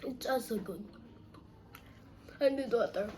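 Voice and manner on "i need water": tongue on fire from spice; mouth burning from spicy food. Real, not acted. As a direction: talk through a burning mouth. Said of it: "My tongue is burning inside".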